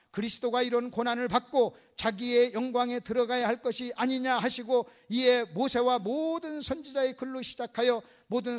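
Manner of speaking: steady, measured reading aloud; formal recitation of a Bible passage; scripture reading. Acted. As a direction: read the verse out evenly to the congregation. Reads scripture aloud to congregation.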